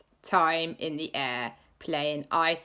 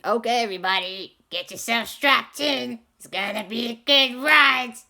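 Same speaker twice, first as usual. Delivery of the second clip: louder Gru pilot voice; 5 semitones higher, 7 dB louder than usual. Acted. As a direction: announce takeoff like Gru. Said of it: "I always regret doing Gru's voice".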